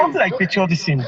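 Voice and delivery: breaking-up phone line; choppy call audio; scrambled voice. Real, not acted. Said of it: "the line is cutting".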